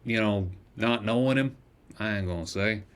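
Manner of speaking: gruff shopkeeper voice. Acted. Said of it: "doing this voice is shredding my vocal cords".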